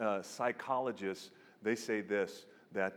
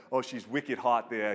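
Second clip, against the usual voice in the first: loud Boston accent impression; brash Boston accent, imitating a movie character; thick Boston accent; 6 dB louder than usual. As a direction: put on a Boston accent, loudly. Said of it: "he's got this thick Boston accent".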